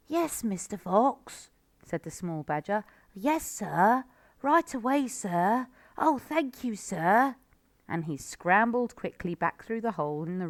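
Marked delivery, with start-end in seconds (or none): 0.1-1.5 breathless whispered yes; the small badger answering the fox; timid little badger. A narrator's reading. 3.1-7.4 put-on high, quick grateful child; the little badger thrilled to help; eager little badger. A narrator's reading.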